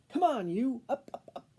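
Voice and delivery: loud urging; urging yell. Acted. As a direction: hurry the leaf along. Camilla yells at leaves.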